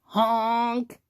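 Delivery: long honk, lightly voiced; dump truck honk. A narrator's reading. Dump truck pushes through, drawn-out honk. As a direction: honk like a big truck horn. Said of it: "yelled the dump truck".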